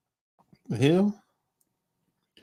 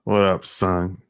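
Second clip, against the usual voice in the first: low New York street greeting; New York accent; 9 semitones lower, slower than usual. Retold or imitated. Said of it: "That's how they talk".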